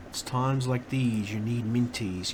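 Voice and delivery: slow, mock advert announcer; ad slogan voice. Streamer quoting an old candy advert, slow mock ad read. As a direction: drawl it out like a TV jingle line.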